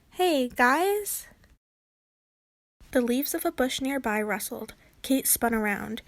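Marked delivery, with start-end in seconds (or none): 0.1-1.3 calling out. Acted. Lost Kate calling for friends.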